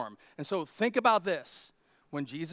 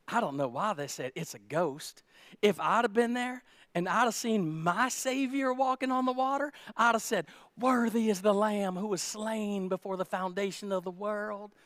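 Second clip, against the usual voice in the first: smug know-it-all; 3 semitones higher than usual. Retold or imitated. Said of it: "You ever met those people?".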